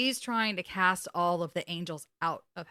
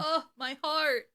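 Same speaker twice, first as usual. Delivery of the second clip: high, slow, drawn-out ache; heartfelt swoon; 7 semitones higher, slower than usual. Real, not acted. Fan moved by the actor's delivery, aching swoon. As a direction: sigh it out, deeply touched.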